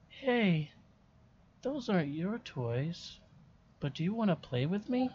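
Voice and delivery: lightly voiced ghost girl, hushed; a hint of a small child whispering; whispered ghost child. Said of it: "The child speaks in a hulled, whispered voice".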